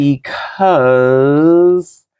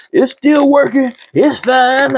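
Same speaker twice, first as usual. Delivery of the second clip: high-pitched mock denial; defensive insistence; 11 semitones higher, 3 dB louder than usual. Woman clinging to her stringy old towels, high-pitched insistence.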